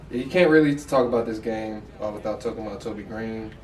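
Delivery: slipped into a New York accent. Real, not acted. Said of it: "I just said that shit like in a New York accent".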